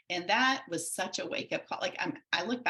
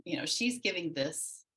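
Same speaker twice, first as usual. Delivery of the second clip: dawning realization; 4 semitones higher than usual. Retold or imitated. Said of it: "I was like".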